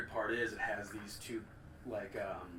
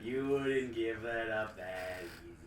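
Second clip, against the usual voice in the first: slow booming villain. Acted. Villain speaks slowly.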